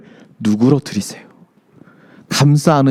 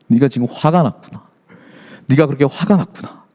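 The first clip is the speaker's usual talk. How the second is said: gentle embracing; 2 semitones lower than usual. Retold or imitated. God comforting an angry Jonah, gently understanding. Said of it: "하면서 요나를 감싸 안으십니다".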